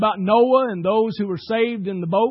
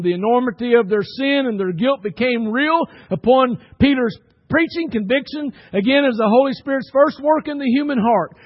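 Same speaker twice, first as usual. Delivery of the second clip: raised, insistent pulpit voice; emphatic preaching; 5 semitones higher, 6 dB louder than usual. Acted. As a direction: preach it with rising conviction, higher and punchy. Preacher expounds conviction of sin.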